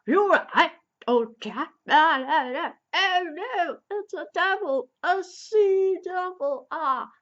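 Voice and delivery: mock panic. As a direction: squeal it out like you've seen a monster. Frightened driller sees sea devil.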